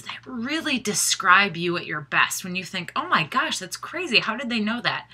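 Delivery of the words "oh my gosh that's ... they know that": higher-pitched, lightly voiced astonishment; mildly acted amazement. Coach imagining a client reading their strengths report, mildly amazed. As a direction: voice an astonished thought, pitched up then easing down.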